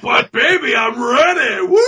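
hammed-up shout of eagerness; mock eager yell. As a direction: whoop it like a horny oaf.

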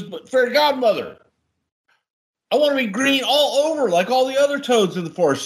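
high, lightly voiced little toad; hammed-up high toad begging the godmother; pleading toad. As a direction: pitch up high as a whiny toad.

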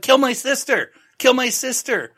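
high, loud, hammed-up outburst; mock frantic yell. Frank mocked, yelling at the inspector in a high, loud outburst. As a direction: yell it like a melodramatic parody. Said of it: "And he's like".

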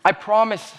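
mild, lightly acted childlike pleading; retold begging. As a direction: plead a little, re-enacting your desperate promises. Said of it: "I begged them".

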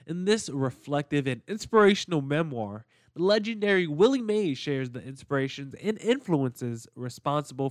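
upbeat sponsor read voice. Acted. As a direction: sell it like a podcast ad.

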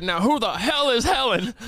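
mock irate grandpa outburst; loud angry old man. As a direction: imitate a cranky old man making a scene. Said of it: "he said it loud".

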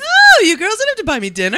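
hammed-up high friendly lady; Leah's voice. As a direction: coo it high like a flattered host. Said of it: "You can probably do her voice".

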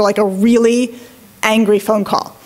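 ordinary talk, nothing marked

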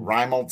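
Raimel said as RYE-mul; emphasis on first syllable. Retold or imitated. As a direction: punch RYE and reduce the rest of Raimel. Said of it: "an emphasis thing".

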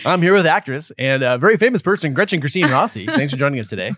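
lightly voiced radio host introduction; a touch of on-air announcer polish. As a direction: keep up a mild DJ patter. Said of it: "She hates my radio announcer voice".

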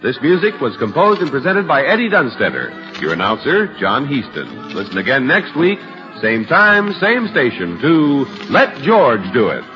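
classic radio announcer delivery; old radio announcer. Acted. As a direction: read the credits like a vintage broadcast. Announcer reads credits over music.

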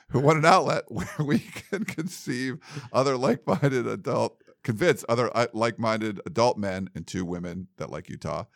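trying to read through giggles; laughing too much. Real, not acted. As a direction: struggle through the email while laughing. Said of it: "I'm laughing too much to get through some of these".

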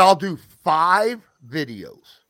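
slow, loud stress on "five"; firm counter-offer. Retold or imitated. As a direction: lay down "five" slowly and forcefully. Retelling firm counter-offer to boss.

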